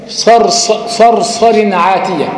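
صرصر عاتية drawn out slowly, each letter clear; slow careful recitation. Shown as a demonstration. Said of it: "في رأيين في الكلمة".

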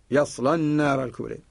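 يصلى with a thick, emphatic lam, Warsh style; heavy lam. Shown as a demonstration. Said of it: "وهذا اللام يمكن تغليظه لورش".

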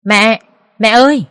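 slow alarmed cry of mom. Acted. Sister-in-law crying out as mother falls, alarmed. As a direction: call out to a fallen mother in alarm. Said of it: "kêu lên".

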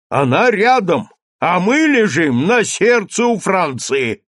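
loud, high shout. A narrator's reading. Teacher shouts at the mayor, loud and high. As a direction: cry it out proudly. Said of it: "крикнул учитель".

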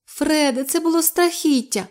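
high-pitched distressed whine; whining. A narrator's reading. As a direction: whimper to him about the horror. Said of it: "скиглила Любонька".

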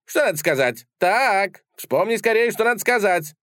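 high, loud insistent demand; little fencer yelling at his disarmed foe; demanding shout. A narrator's reading. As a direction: press the rival hard for an answer. Закричал он.

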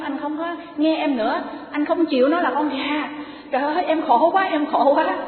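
wife wails that her husband no longer loves her, in a hammed-up high lament; wailing wife. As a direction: whine like a wronged bride who is half crying. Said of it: "bà khóc".

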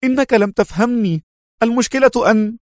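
high flustered protest. A narrator's reading. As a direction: sputter in distress. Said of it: "زفر جونز وقال في اضطراب".

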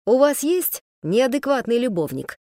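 brisk, cheerful query; perky question. Acted. Man cheerfully asks the woman about her lover, perky. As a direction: ask it perkily, as if it were nothing. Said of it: "бодренько поинтересовался".

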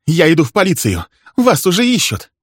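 high, loud shouting; enraged woman's cry, pitch climbing; hysterical threat. Acted. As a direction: yell it shrilly on the way out.

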